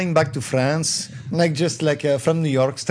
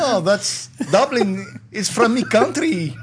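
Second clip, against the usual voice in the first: higher, put-on Irish lilt; attempted Irish accent; 5 semitones higher than usual. Shown as a demonstration. Guest insists that's Dublin, attempted Irish accent. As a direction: defend your dodgy Irish accent in that accent. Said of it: "worse than my Irish accent".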